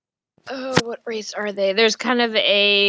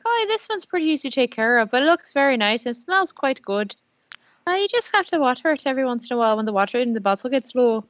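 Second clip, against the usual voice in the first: orc seller voice; 3 semitones higher, faster than usual. Acted. Orc seller describes flower.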